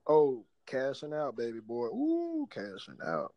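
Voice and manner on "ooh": high-pitched "ooh" of delight; gleeful whoop. Real, not acted. Host celebrating cashing out, high gleeful whoop. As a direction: whoop it up over easy money.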